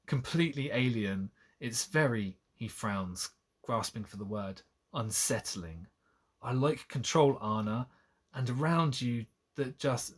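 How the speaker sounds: measured novel reading; storybook delivery with understated character lines; story narration. A narrator's reading. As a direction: read the romance aloud, dialogue lightly acted. Reads the novel aloud.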